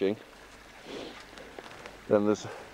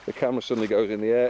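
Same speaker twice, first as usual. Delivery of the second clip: rushed after a fall; 2 semitones higher, faster than usual. Real, not acted. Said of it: "I just fell over".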